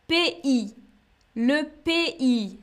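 pays said in two syllables, pé-I; teacher demo of pays; French pronunciation. Shown as a demonstration. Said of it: "on dit".

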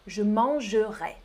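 "mangerai" with three syllables; southern French "mangerai"; southern pronunciation. Shown as a demonstration. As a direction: keep the e in "mangerai". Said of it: "on prononce toutes les syllabes".

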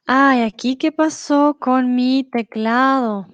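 ¡ay! sorpresa alarmada y fuerte por el teclado; flustered surprise. Real, not acted. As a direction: suelta el susto en voz alta, más despacio. Keyboard breaks mid-class. (sorprendida y agobiada por el teclado)

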